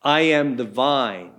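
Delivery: "am" stressed, a little slow; slow, weighty "I am the vine"; emphatic I am. Shown as a demonstration. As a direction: lean on "am" and let "vine" fall. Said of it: "start off with a very emphatic".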